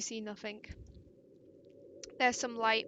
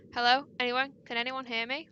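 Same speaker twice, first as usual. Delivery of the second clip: calling out; 5 dB louder than usual. Acted. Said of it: "You cough and try again".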